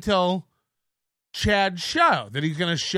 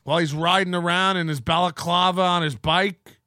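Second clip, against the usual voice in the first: normal talking voice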